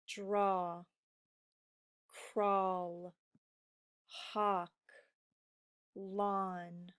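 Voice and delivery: slow, clear word-by-word reading; reading word list. Shown as a demonstration. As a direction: read each word crisply for a class. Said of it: "we will read these together".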